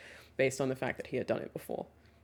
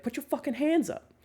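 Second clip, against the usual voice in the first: mock yell; 10 semitones higher than usual. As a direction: imitate a spectator yelling advice, held back. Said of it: "to yell at these people".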